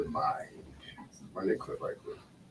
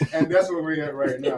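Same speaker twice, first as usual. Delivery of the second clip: real laughter, higher and louder; laughing while talking; 8 semitones higher, 8 dB louder, slower than usual. Real, not acted. Host reacting to an opinionated guest, laughing through the words. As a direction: talk through a burst of laughter.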